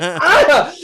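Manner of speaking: a high, loud "Ah!" of shock; startled yelp. Retold or imitated. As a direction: jump as if caught off guard. Reacting to friend snapping.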